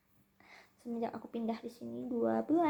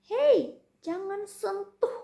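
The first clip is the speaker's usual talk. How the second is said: translated scolding; 8 semitones higher, 4 dB louder, much slower than usual. Retold or imitated. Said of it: "artinya itu".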